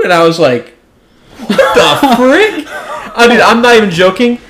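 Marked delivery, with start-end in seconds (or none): 1.4-2.7 shocked disbelief. Retold or imitated. Startled reaction to crying stranger.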